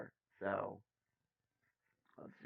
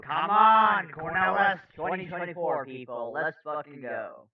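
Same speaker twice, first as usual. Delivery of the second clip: rallying cry; 6 semitones higher, 15 dB louder than usual. Pretend. Rallies for own candidate.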